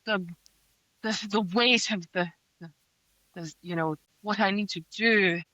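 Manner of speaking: lightly hammed-up tortured sigh; mock the hero's self-pity with sighs and pauses; mocking brooding hero. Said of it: "he takes it upon himself to be like".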